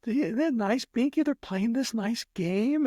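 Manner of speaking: very high, slow, doting voice; imitated dotty lady. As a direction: mimic a not-quite-right lady showing off her dog. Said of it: "is not quite right".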